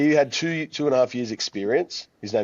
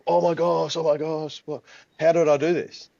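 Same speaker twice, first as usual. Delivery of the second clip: higher-pitched thrilled disbelief; astonished disbelief; 6 semitones higher than usual. Retold or imitated. Coach who just sold two memberships, astonished disbelief. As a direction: imitate a trainer amazed at herself. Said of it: "Couldn't believe it".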